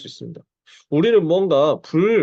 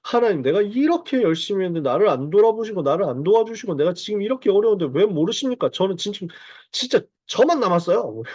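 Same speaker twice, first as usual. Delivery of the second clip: raised pitch, worked-up pleading; petulant grievance, lightly acted; pent-up complaint; 4 semitones higher than usual. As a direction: act out an aggrieved plea to God. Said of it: "북받침".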